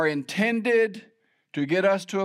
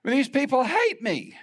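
desperate prayer; 7 semitones higher than usual. Retold or imitated. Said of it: "I'm just crying out to God".

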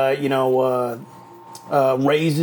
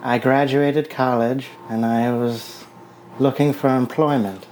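lightly put-on woman's voice; 2 semitones lower than usual. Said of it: "So my woman voice?".

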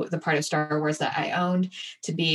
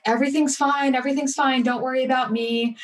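high-pitched, insistent reassurance; feigned composure; 7 semitones higher than usual. Retold or imitated. Hobbling back to work after surgery, feigned composure. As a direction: act as if all is fine, pitched well up. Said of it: "trying to look super composed".

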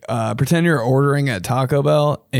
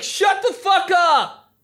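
harsh bro snap at the guys; much slower than usual. Retold or imitated. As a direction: bark it like one of the boys. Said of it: "I'm kind of ashamed of my girlfriend voice".

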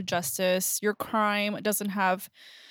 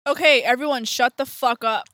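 louder bossy announcement; loud call to order; 2 semitones higher, 5 dB louder than usual. Real, not acted. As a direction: yell the room to order. Calling the show to order.

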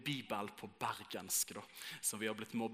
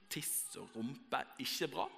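graffiti quote; 3 dB quieter, much slower than usual. Retold or imitated. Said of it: "folk har skrevet sånn".

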